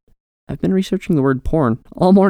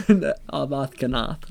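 laughing; 5 dB quieter, slower than usual. Real, not acted. Laughing repeat.

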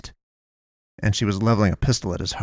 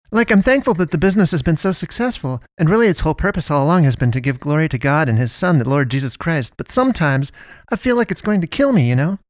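much higher, pious chatty shopkeeper; rambling Melinda; 7 semitones higher than usual. Acted. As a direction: gush on about God and work, frazzled. Melinda voiced high, rambling.

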